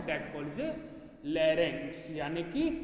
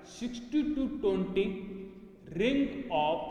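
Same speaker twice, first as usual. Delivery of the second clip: numbers stretched out slowly; slow dictation; much slower than usual. Shown as a demonstration. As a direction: read the numbers slowly for notes. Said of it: "dictating notes".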